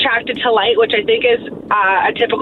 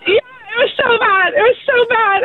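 disgusted laughter; 10 semitones higher than usual. Real, not acted. Recalling the moth eating.

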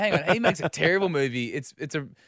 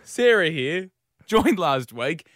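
raised, louder voice of a keen new colleague; Sarah; 4 semitones higher, 6 dB louder, slower than usual. Retold or imitated. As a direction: butt in loudly to join the chat. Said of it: "swings her chair out and goes".

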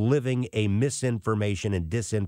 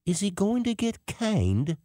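put-on whispering kid; 9 semitones higher than usual. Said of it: "one kid behind me go".

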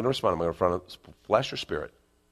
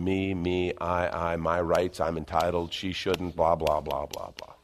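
whiny flesh; 4 semitones lower, slower than usual. Retold or imitated. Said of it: "Flesh is just going".

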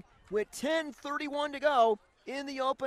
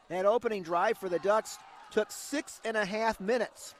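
play-by-play; 2 semitones lower than usual. Acted. Radio play-by-play.

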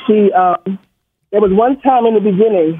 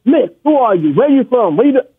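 imitated stutter; 3 semitones higher than usual. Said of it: "So she's stuttering".

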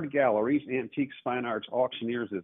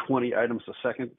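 fast auctioneer talk; faster than usual. Shown as a demonstration. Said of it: "I know I'm talking like an auctioneer".

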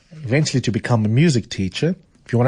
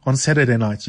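put-on a weak, higher try at an Irish accent; attempted Irish accent; 4 semitones higher than usual. Host reading the Irish landlady to her new lodger, failed Irish accent. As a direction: voice the Irish landlady and admit the accent barely lands. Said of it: "You can see I can't do an Irish accent".

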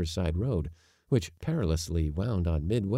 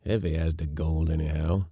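growl; 3 dB louder than usual. Acted. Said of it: "growled Yorpy".

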